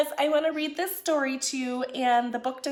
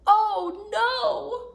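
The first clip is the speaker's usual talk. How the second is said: high, louder little fox cry; frightened cry; 7 semitones higher, 4 dB louder than usual. Acted. Fox caught in the storm, high frightened cry. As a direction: cry out like a scared fox in the rain. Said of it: "Little Fox cried".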